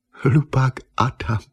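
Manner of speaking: slow, mocking, half-laughing jeer. A narrator's reading. Eva laughs at the fallen painter, slow and mocking. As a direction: savour the insult with a laugh. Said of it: "zasmála se Eva".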